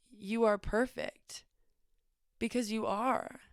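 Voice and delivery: earnest, measured questioning with long pauses; serious. Retold or imitated. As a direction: retell a teacher's solemn revelation, gently and deliberately. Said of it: "he looks at me so seriously".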